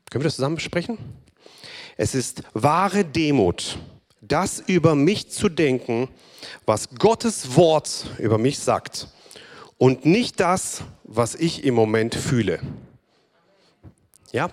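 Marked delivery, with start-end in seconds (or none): 2.0-12.6 joint proclamation. Acted. Proclaims together with congregation.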